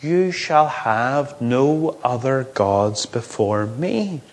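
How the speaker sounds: slow, measured voice of God; low, deliberate divine pronouncement; clear proclamation. Acted. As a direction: proclaim it clearly as a command, taking it slowly. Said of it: "proclaims to them in a clear voice".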